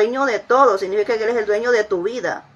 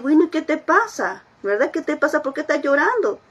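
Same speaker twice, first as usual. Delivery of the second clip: tender parent; 4 semitones higher than usual. Acted. Parent to crying four-year-old, tender concern. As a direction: gently ask a crying child what's wrong. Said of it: "te llama a la ternura".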